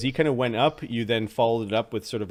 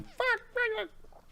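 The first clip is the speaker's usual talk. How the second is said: tiny high, soft squeak; jeering kobolds; 8 dB quieter, slower than usual. Acted. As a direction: squeak it like little kobolds pointing from afar. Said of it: "You can see some kobolds".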